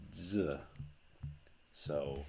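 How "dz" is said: Z as "dzuh"; Z begun with a d; dz sound. Shown as a demonstration. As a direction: say Z as a buzzing dz. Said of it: "Taf Zita is pronounced".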